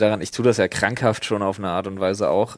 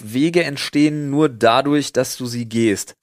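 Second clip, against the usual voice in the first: mock solemn quote; 4 semitones higher, 4 dB louder, slower than usual. Reading out a calendar quote.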